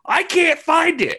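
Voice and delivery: high, slow, loud whine; mock helpless complaint; helpless user. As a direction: plead like a lost beginner. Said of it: "And you're like".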